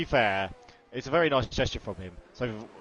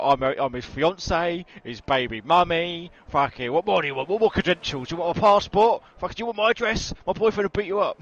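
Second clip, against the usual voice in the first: higher, louder hammed-up girlfriend rant; mocking Lexi; 6 semitones higher, 5 dB louder than usual. To his co-host, parodying Lexi's high loud possessive rant. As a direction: rant like a jealous fiancee staking a claim. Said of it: "She's like".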